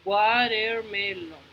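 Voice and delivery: "Watermelon" slowly, each syllable given its own weight; separado en sílabas. Shown as a demonstration. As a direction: stretch out every syllable of "Watermelon". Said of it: "tenemos que dividirlo". ("Watermelon" despacio, marcando cada sílaba)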